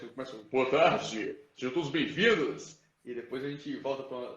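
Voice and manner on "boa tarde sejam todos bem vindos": louder demo of an embodied voice; full-bodied voice. Shown as a demonstration. Teacher demonstrates vocal intonation with a welcome, full-bodied. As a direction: put body into the voice for a welcome. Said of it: "como eu encorpo a minha voz".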